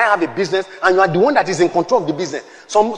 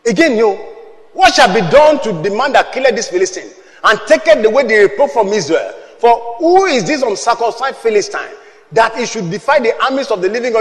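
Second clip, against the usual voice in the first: David speaking. Retold or imitated. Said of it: "And David spake ... saying".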